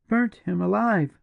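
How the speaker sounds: high, horrified echo of his words; shocked exclamation. A narrator's reading. Julia repeating the partisan's words, horrified and high. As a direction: throw his words back in disbelief. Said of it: "exclaimed Julia".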